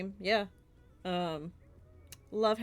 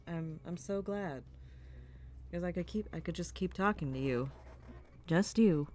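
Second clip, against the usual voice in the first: right in your ear; 2 semitones lower than usual. Pretend. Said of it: "Right in your ear holes".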